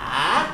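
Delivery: "Ah" dropped low, then curving up; dipping third tone. Shown as a demonstration. Teacher demonstrating the third tone, "Ah" low then rising. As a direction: dip "Ah" down and bring it back up. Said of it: "le troisième ton".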